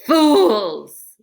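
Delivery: loud, furious bark; terrible roar. A narrator's reading. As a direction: roar at the fools. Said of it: "in his most terrible voice".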